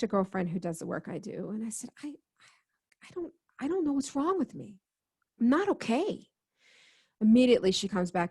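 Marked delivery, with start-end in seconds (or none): 2.0-6.3 hushed, breathless whisper of worry; retold whisper. To her girlfriend, admitting fear in a hushed whisper. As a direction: whisper it like a scared confession. Panicked call to a friend.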